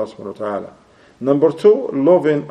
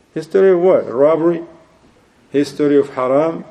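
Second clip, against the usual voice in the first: incredulous retort. Acted. Preacher retorts mockingly.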